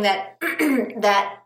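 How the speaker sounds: throat catching, clearing it mid-sentence; choking. Real, not acted. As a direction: talk through a tickle in the throat. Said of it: "I'm sorry, I keep choking".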